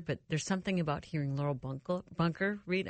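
lozenge-numbed mouth stumbling words. Real, not acted. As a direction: speak with a numb tongue. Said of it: "my mouth is numb".

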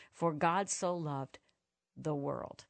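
THE WORLD set apart after a long pause; slow build, pause, then "the world" on its own; stress on THE WORLD. Shown as a demonstration. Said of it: "Not just Christians, not just humans".

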